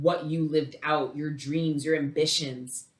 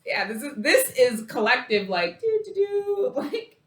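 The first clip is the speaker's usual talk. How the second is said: much higher, louder, squealing with delight; excited squeal; 10 semitones higher, 7 dB louder than usual. Real, not acted. Reader thrilled by the Four of Wands card, squealing. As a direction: break into a giddy squeal of joy.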